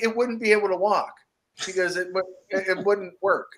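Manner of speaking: lightly voiced dad reasoning it out. Dad explaining to his son why the hand can't walk, patient.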